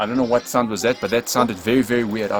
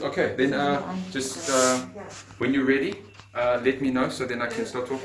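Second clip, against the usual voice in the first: hushed; 7 dB quieter than usual. Real, not acted. Hushed talk before spirit box.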